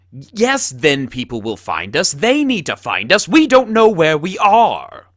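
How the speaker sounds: loud high rising panic; panicked. Acted. Lost, panicking about being found.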